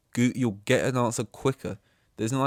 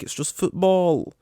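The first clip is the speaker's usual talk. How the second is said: much higher, louder sneering voice; high mocking falsetto taunt; mocking dismissers; 8 dB louder than usual. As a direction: squeak it out like a taunting know-it-all. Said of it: "they say".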